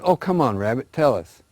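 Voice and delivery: a lightly voiced turtle begging to come along; pleading turtle. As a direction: coax Rabbit like an eager turtle. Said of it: "The turtle says".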